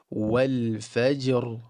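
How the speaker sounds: slow-building wal fajr, only the ra heavy; full ra, empty jim in fajr. Shown as a demonstration. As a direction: keep jim light with qalqala, ra full. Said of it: "the ra gets the fullness".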